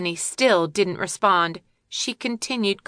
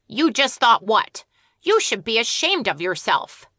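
scolding squirrel; 3 semitones higher than usual. Acted. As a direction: tell her off like a cross parent.

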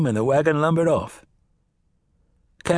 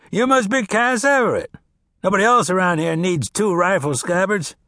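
put-on old farmer; 8 semitones higher, 3 dB louder than usual. Old farmer answering Cass, wry and grumbling.

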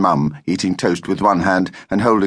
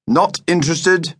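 slow, higher-pitched refusal; insistent; 9 semitones higher than usual. A narrator's reading. Father turns down the trip, slow and insistent. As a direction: stretch out each word to insist. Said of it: "insisted her father".

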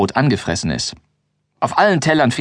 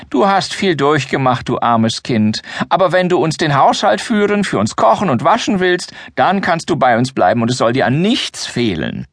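put-on unctuous old man; 5 semitones higher than usual. Grimbold offers the girl a home, unctuous old-man voice. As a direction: preach kindly like a self-important elder. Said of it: "salbadert weiter".

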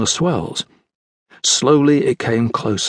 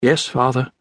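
dutifully. Acted. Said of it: "she replied dutifully".

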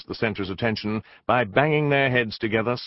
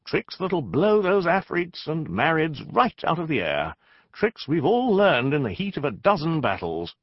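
rallying boast; 9 semitones higher, 3 dB louder than usual. Acted. Rallying speech.

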